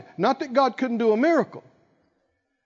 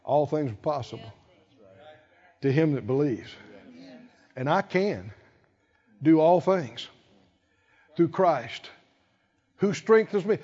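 quiet confession; 5 semitones lower, 4 dB quieter than usual. Retold or imitated. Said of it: "you start saying things like".

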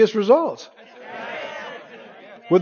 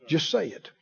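softer echo; 3 semitones lower, 11 dB quieter than usual. Shown as a demonstration. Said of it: "repeats the phrase".

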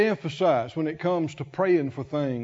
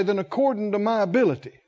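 rushed wrong version; much faster than usual. Pretend. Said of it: "he might say".

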